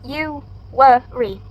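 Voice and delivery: "you, worry" drawn out slowly, syllable by syllable; slow syllable demo. Shown as a demonstration. Presenter slowly spelling out the word's parts for the class. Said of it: "during the Feb, you, worry".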